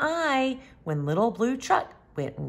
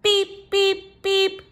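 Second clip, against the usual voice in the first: animal sounds; 9 semitones higher, much slower than usual. Acted. Animals cheering at the end.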